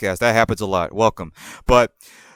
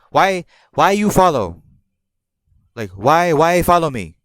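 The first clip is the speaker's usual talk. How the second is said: mock rude question; 4 semitones higher, 3 dB louder than usual. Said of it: "she questioned me".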